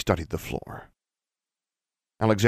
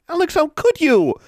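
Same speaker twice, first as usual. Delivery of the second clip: loud, very high reproach; anguished cry; 8 dB louder than usual. Acted. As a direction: cry out in hurt accusation. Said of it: "Anna cried out".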